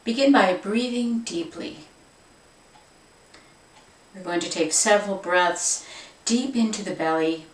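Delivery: calm, unhurried meditation guide voice; guided meditation. Acted. Yoga teacher guiding viewers into the meditation, calm. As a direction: settle them in gently, no rush.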